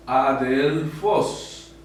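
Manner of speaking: adelfos drawn out slowly, accent on FOS; stressed last syllable. Shown as a demonstration. Teacher showing students the acute accent on adelfos, stressed -fos. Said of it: "Le da ese tono fuerte".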